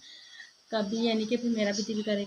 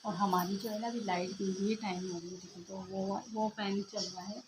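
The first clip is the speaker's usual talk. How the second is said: speaking softly; 6 dB quieter than usual. Real, not acted. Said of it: "हल्के हल्के बोल रही हूँ".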